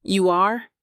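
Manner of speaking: overplayed surprised question; fake surprise. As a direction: act shocked, a bit hammy. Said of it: "I put on my best surprised face".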